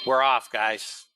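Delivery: a real burst of excitement as the trade kicks off; excited announcement. Real, not acted. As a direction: announce it with a jolt of energy. Market opens, trade starts.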